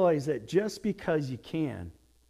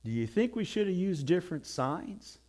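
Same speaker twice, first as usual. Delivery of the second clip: deadpan rabbi; 3 semitones lower, 8 dB quieter than usual. Retold or imitated. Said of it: "the rabbi looked over ... and said".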